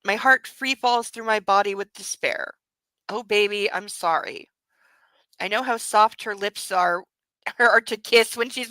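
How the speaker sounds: steady, even narration of the novel; story narration. A narrator's reading. Reader narrating a romance novel, even narration. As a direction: read it like an audiobook. Reading the book aloud.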